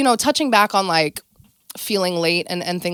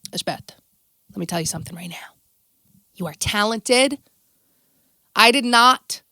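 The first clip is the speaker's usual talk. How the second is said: mom's lecture. Retold or imitated. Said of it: "you know what my mom says to me".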